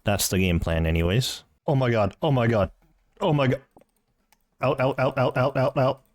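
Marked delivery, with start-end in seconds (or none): 1.7-3.6 excited. Real, not acted. Rare drop appears on screen. 4.6-6.0 urgent. Real, not acted. Frantic to leave with drop.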